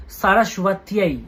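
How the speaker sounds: সরস্বত্যাই said slowly, syllable by syllable, with a long final "yai"; correct Sanskrit pronunciation. Shown as a demonstration. Astrologer correcting viewers' Sanskrit, সরস্বত্যাই slowly sounded out. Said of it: "সংস্কৃত উচ্চারণটা ঠিকঠাকভাবে জানতে হবে".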